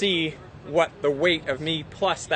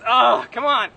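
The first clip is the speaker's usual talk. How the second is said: frustrated shout; 5 semitones higher, slower than usual. Real, not acted. Urging friend to hold wheel.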